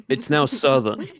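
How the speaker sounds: "Southern" drawn slowly with a Southern accent. Shown as a demonstration. Showing co-host the new habit, accented "Southern". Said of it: "anytime I say the word Southern".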